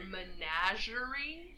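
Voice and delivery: MENAGERIE said slowly and carefully; Menagerie, careful, rising at the end; careful pronunciation. Real, not acted. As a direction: pick through Menagerie slowly, with no added N. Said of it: "I have to say that word very slow".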